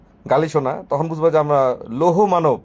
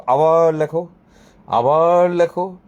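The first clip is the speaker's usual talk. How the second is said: stretched, raised-pitch call; drawn-out call; 3 semitones higher, 4 dB louder, slower than usual. Pretend. Telling commenters to write it once more, drawn-out call. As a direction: draw the words out insistently. Mimics calling for repeated comments.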